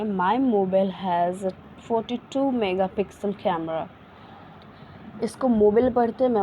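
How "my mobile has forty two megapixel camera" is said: slow, word-by-word dictation; slow model sentence. Shown as a demonstration. Teacher gives English sentence to viewers, slow and careful. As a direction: say it slowly for learners to copy. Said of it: "तो इसको बोलेंगे".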